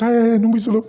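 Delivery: lightly voiced weepy granny; tearful grandmother. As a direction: lament like an upset grandmother. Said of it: "my grandma was there in tears".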